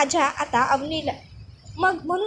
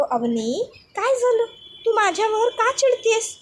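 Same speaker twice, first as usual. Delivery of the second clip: lightly higher, slow pleading voice; pleading fiancé; 7 semitones higher than usual. Acted. Vivan pleading with Avani on the phone, hurt. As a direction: coax her gently, hurt.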